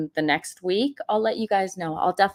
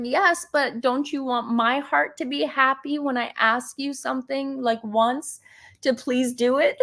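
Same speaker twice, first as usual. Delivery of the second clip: laughing reply; 6 semitones higher than usual. Retold or imitated. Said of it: "I'm like".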